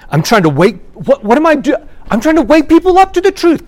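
high, loud self-righteous mock cry; mock righteous zeal. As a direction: squeal it like a zealot. Mocking self-righteous poster.

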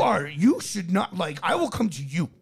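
a light mock of a macho lecture; lightly voiced arrogant bragger; imitating the influencer. Mocking how the influencer talks to women, lightly voiced. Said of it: "That's, that's how he talks".

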